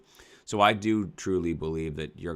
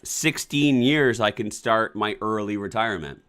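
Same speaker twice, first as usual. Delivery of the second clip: exasperated; 5 semitones higher, 7 dB louder than usual. Real, not acted. Exasperated repeat.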